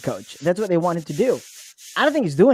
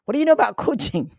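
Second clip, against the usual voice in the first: incredulous; 5 semitones higher than usual. Retold or imitated. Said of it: "and I'm like".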